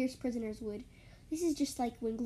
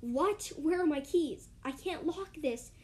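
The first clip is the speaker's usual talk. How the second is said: 1 screeching guard; 4 semitones higher, 3 dB louder, slower than usual. Acted. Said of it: "as he screeches".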